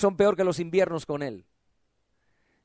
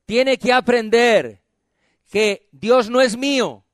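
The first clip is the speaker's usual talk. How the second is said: slow model phrase to repeat; slower than usual. Shown as a demonstration. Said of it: "Diga conmigo".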